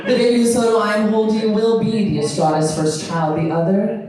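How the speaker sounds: slow, dramatic host voice; hammed-up runway host announcing elimination; Tyra Banks impression. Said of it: "Tyra Banks comes up and goes".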